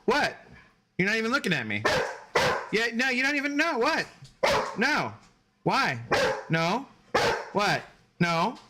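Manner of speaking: playful scolding of a sassy dog. Real, not acted. Owner teasing his dog about her sass, in high baby talk.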